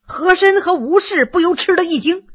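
usual speaking voice

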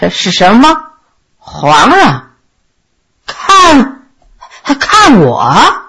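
halting, bewildered mumble with swings in pitch; indistinct muttering. A narrator's reading. Groggy prince asks whether the emperor came for him, indistinct muttering. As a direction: mumble in broken bits, just roused. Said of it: "嘴里含糊不清地嘟囔着".

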